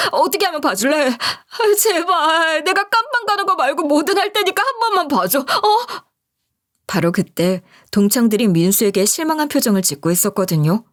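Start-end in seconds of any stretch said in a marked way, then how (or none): 0.1-6.0 high, whining plea with a nervous laugh; desperate high begging. Acted. A culprit groveling to the widow he wronged, high whiny begging. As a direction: wheedle and grovel, voice pitched way up.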